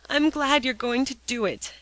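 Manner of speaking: glum, reluctant echo; dismal echo. A narrator's reading. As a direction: echo it back in misery. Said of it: "echoed Alexia in a dismal tone".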